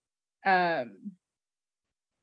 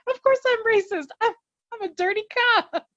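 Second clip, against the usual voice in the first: higher put-on voice, boastful and brash; mock dirty cop. Hardison bragging to the Mexicans, high put-on voice. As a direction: play the crooked cop proudly owning it.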